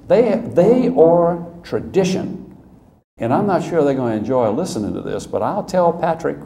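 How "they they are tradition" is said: slow emphatic. Retold or imitated. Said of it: "I said".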